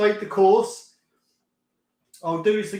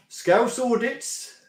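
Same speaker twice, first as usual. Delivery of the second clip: slow, amused read with a laugh, a bit higher; 5 semitones higher, much slower than usual. Real, not acted. Streamer reading a viewer's name to chat, slowly and amused. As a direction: chuckle while reading the odd name out.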